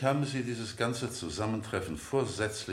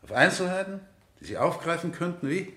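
louder, higher, mocking the witness's excuse; sarcastic accusation; 4 semitones higher, 5 dB louder than usual. Defence lawyer mocks the witness in court, sarcastic and raised. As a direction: needle him with scorn.

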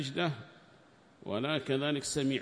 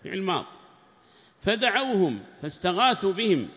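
raised, higher recitation voice for the quoted book; formal text reading; 7 semitones higher, 7 dB louder than usual. Acted. Sheikh reading the tafsir book aloud to students, raised formal reading voice. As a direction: declaim the commentary text like reading to a class.

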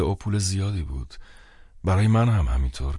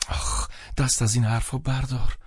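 higher, mildly annoyed protest; upset; 8 semitones higher than usual. A narrator's reading. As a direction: brush it off with a touch of upset. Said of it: "ناراحت گفت".

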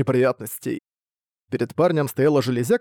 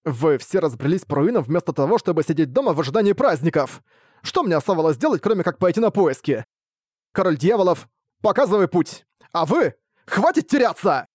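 angry; 4 semitones higher than usual. Acted. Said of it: "Юноша мгновенно рассердился".

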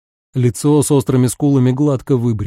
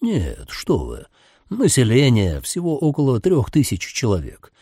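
sinister driver voice; 3 semitones lower, 3 dB quieter than usual. A narrator's reading. Driver's voice held.

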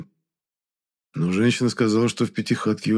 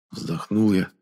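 ordinary delivery, nothing marked

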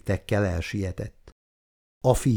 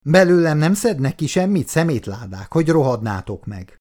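high-pitched angry outburst at first, then dropping; angry defiance; 6 semitones higher than usual. Acted. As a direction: curse the captors defiantly. Captive curses his captors. (dühös, dacos kifakadás)

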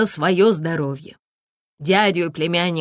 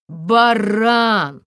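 loud strained cry; 3 semitones higher, 3 dB louder than usual. A narrator's reading. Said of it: "воскликнул Эдик уже громко и как-то надрывно".

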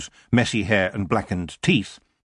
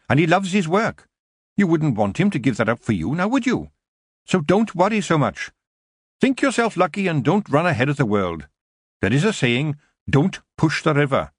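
higher, brisk elder witch; Mrs Proust, advising; 7 semitones higher than usual. A narrator's reading. Older witch tells young witch not to worry, reassuring. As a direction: lightly voice an older witch giving counsel.

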